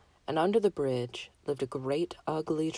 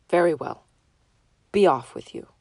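loud gruff troll; 8 dB louder than usual. Acted. Troll dismisses the goat.

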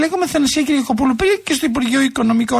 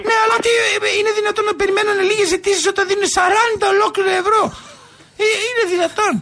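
indignant disbelief; 4 semitones higher than usual. Acted. Caller disputes excuse of many applications.

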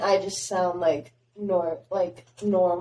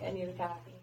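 softly re-enacted Northern US accent; 11 dB quieter, much faster than usual. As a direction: retell it in a put-on Northern accent. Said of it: "I can turn on my, like, Northern accents".

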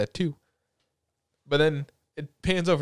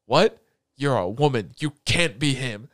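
mock shock; 3 dB louder than usual. Retold shocked reaction.

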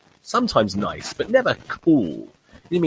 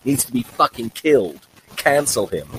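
hammed-up angry social media user; mock furious poster; outraged online voice; 3 semitones higher than usual. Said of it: "And they'll respond".

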